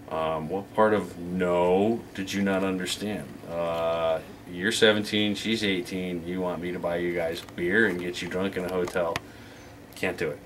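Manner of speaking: low, measured exasperation; deadpan refusal. Retold or imitated. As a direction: spell it out with weary restraint. Acted deadpan refusal to the caller.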